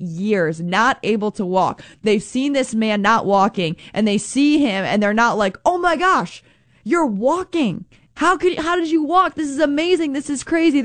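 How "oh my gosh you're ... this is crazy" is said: high, gushing pretend amazement; mock wide-eyed wonder at the healed man; much higher excited disbelief; amazed. Imagined amazed onlookers at healing.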